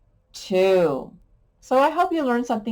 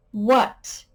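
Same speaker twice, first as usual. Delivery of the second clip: questioning what; 2 semitones higher than usual. Shown as a demonstration. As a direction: ask "What?" as a real question. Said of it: "begins with a W H".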